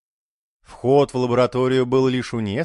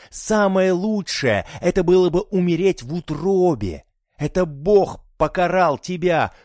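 furious tirade; 5 semitones higher than usual. A narrator's reading. Fanatic mother screaming at her daughter, furious. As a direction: pour hatred on her.

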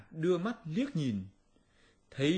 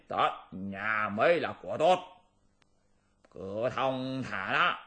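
scheming demon king. Acted. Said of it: "lão yêu lại dặn".

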